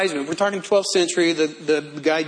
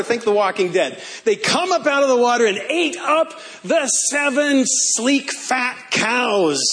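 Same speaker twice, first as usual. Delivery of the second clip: spooky buildup; 6 semitones higher than usual. Acted. Scary telling of gaunt cows.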